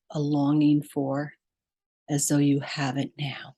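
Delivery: measured meditation guide, long pauses between phrases; guided meditation. Real, not acted. Podcast host leading listeners to breath and heart, guided meditation. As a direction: lead them inward phrase by phrase, leaving long silences.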